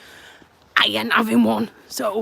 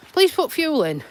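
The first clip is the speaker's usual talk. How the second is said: car voice; 5 semitones higher than usual. Retold or imitated. Voicing the car's warning message.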